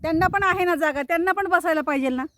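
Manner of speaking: high, loud sing-song pet talk; cooing to pets. Real, not acted. She coos loudly at her pet birds, high and doting. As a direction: coo and fuss over them like babies.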